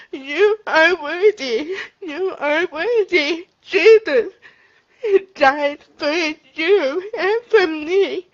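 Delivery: emphatic. Real, not acted. Addressing viewers with conviction.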